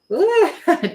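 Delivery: short, high, loud laugh. Real, not acted. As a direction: burst out with a quick high laugh. Reacts after smudging something.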